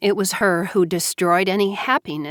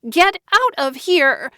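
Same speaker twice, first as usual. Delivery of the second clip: hysterical scream; 9 semitones higher than usual. A narrator's reading. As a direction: scream it again at the intruder. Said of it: "Joanna screamed hysterically".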